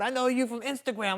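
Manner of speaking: thrilled stranger on the street; excited fan. Retold or imitated. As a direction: play the starstruck fan spotting him.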